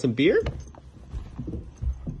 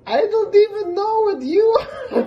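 high, louder cooing with a laugh; 12 semitones higher, 5 dB louder than usual. Real, not acted. Owner gushing to her shaking dog. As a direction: gush over the dog.

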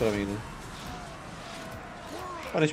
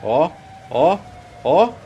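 excited; 2 semitones higher, 6 dB louder, much slower than usual. Real, not acted. Vibra com o acerto.

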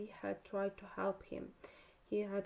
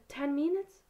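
higher, louder, rising question; shocked croak; 6 semitones higher, 7 dB louder than usual. A narrator's reading. Harry learns the task starts in ten minutes, shocked croak. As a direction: blurt it in alarm, pitch climbing.

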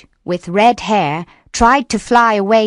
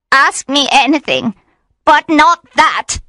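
high, pleading witch voice, slowing at the end; mildly tearful, high-pitched begging; tearful plea; 8 semitones higher, 4 dB louder than usual. A narrator's reading. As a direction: beg him in a high voice. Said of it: "She began to cry".

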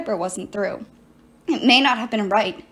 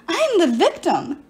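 mild wail; 6 semitones higher, 4 dB louder than usual. Acted. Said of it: "Medea wailed".

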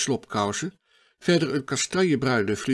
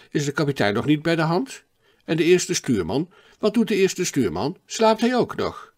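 1 chattering eagerly; 6 semitones higher, 4 dB louder than usual. A narrator's reading. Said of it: "praatte de onbekende maar onophoudelijk door".

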